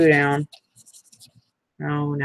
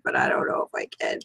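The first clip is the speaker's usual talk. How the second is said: whispered aside; 2 semitones lower, 6 dB quieter, faster than usual. Real, not acted. Admitting doubt to a friend.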